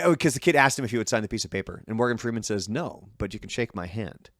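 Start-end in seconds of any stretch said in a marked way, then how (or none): 2.7-4.3 calm and quiet. Retold or imitated. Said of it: "I'm not even gonna try to do a Morgan Freeman voice".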